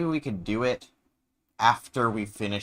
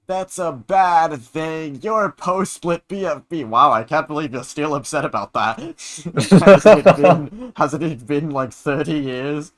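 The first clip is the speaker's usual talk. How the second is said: character voice; 5 semitones higher, 9 dB louder than usual. Pretend. In-character banter, put-on voice.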